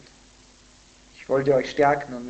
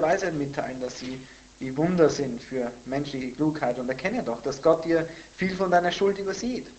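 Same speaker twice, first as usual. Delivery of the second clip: animated recitation, higher at first, then easing; forceful scripture reading; 4 semitones higher, 5 dB louder than usual. Acted. Pastor reading Zophar's rebuke to Job, animated recitation. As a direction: declaim the accusing questions, then settle.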